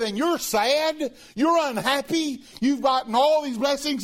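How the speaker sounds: can't believe he's sad; incredulous. Acted.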